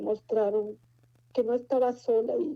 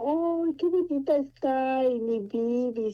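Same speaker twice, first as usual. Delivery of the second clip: put-on higher, slow, doting child voice; child cooing at the newborn cousin; little boy's voice; 5 semitones higher, slower than usual. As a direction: coo over the baby like a small boy. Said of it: "Y me dice el niño".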